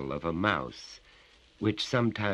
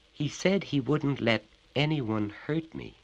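whimpering; 8 semitones higher than usual. A narrator's reading. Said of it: "he whimpered".

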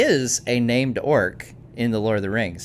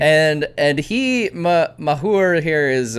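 orc voice; 6 semitones higher, 5 dB louder, slower than usual. Pretend. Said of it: "speak in an orc, uh, uh, voice the entire time".

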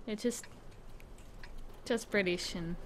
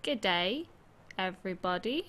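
slower Australian greeting. Shown as a demonstration. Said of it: "Bit, bit slower and more empath".

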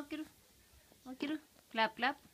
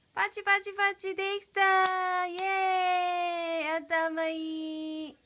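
cheering; 2 semitones higher, 4 dB louder than usual. Real, not acted. Cheering baby's success.

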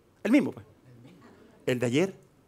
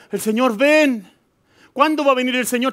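mock pleading church; 8 semitones higher, 6 dB louder than usual. Preacher mocking a church that only stares at the sky, in a high whiny plea. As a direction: mimic a church begging heaven.

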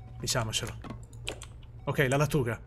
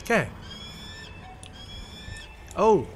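ordinary talk

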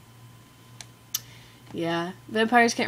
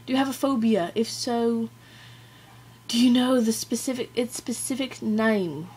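careful, amateur British accent; attempted British accent; 3 semitones higher than usual. Shown as a demonstration. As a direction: read the question in a put-on British accent. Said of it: "attempt a British accent".

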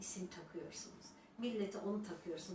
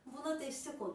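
mocking viewers; 7 semitones higher than usual. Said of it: "alıyorlar ellerine".

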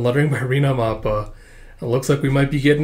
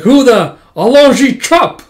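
startled yelp; 10 semitones higher, 9 dB louder, much slower than usual. Acted. Bully hit by ballet kick.

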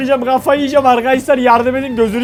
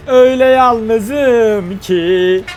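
mock lonely lament; 4 semitones lower, much slower than usual.

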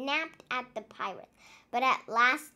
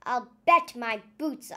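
loud, bold captain's boast; hearty pirate boast; 7 dB louder than usual. Acted. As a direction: boom it out with swagger. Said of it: "cried Captain Pepper".

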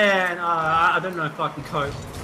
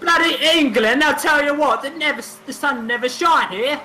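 higher, grumbling English put-on; mock English accent; 4 semitones higher than usual. Player complaining about English weather, mock English accent. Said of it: "do an English accent".

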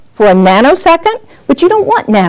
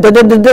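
stuttering stuck syllable; 3 dB louder, much faster than usual. Retold or imitated. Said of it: "when you get stuck in a word".

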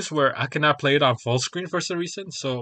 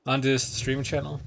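chewing gum. Real, not acted. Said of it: "Excuse me for the gum I'm chewing".

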